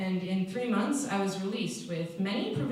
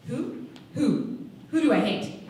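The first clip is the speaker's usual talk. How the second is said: indignant questions building louder; almost yelling; 3 semitones higher, 5 dB louder than usual. Acted. Newcomer asked whom she hates, almost yelling. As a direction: hold back a yell, growing louder with each question. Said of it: "I almost yelled, but yelling was against the rules".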